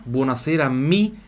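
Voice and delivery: syllable-by-syllable Italian model; slow repeat-after-me. Shown as a demonstration. Teacher leading students repeating aloud, slow repeat-after-me. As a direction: spell out "mi chiamo Silvano Formentin" in slow, separated chunks. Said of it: "Repetindo em voz alta".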